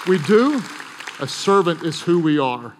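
emphatic. Real, not acted. Preacher punching the key point.

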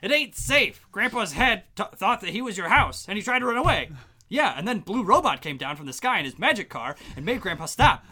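mock kid voice. Kid voice retelling Dean.

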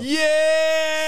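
loud, high shout of agreement; excited cheer. Real, not acted. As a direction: yell it out in excitement.

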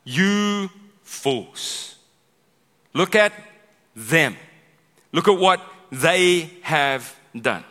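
loud, high, dragged-out rebuke; exasperated shout. Acted. Prophet scolding the people, loud and high. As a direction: berate the crowd, slowing on the last line. Preacher voicing angry Nehemiah rebuke.

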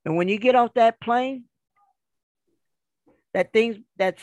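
woman's voicemail message. Retold or imitated. Woman leaves the husband a suggestive voicemail, lightly imitated caller.

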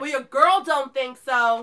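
slow sassy comeback; drawn-out sassy voice with attitude. Acted. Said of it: "it's just my sassy, my sassy voice".

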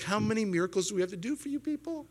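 high-pitched mock exasperation; worn-out patience, hammed up; exasperated. Acts exasperation at the grumbling people.

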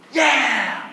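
cheer, but hold back a little; half-hearted cheer. Shown as a demonstration. Preacher prompts the congregation with a mild cheer. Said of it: "your excitement is still lacking".

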